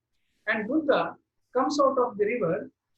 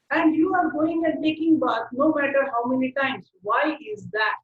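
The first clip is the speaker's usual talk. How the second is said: higher-pitched, insistent acted complaint; mildly frustrated; 4 semitones higher than usual. Spitting man challenges an unreactive Buddha, mildly frustrated. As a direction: press the words out in mild, acted exasperation. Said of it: "this man gets so frustrated and he asks Buddha".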